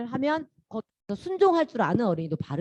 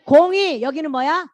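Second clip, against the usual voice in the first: normal talking voice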